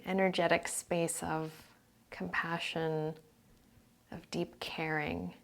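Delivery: calm meditation voice, phrases spaced by silence; guided meditation. Real, not acted.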